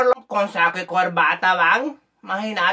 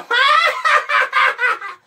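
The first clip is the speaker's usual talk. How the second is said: high, loud imitated crowing laugh; mocking rooster laugh; 4 dB louder than usual. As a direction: cackle like a taunting rooster. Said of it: "como que se están burlando de vos". (risa burlona de gallo, aguda)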